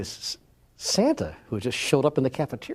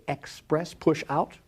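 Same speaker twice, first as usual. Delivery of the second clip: "express" lifted as ex-press, then "push out" pitched up; higher, deliberate "express, push out"; spelled-out emphasis; 5 semitones higher, much slower than usual. Shown as a demonstration. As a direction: set out "express" and "push out" as word and meaning. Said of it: "That is to say".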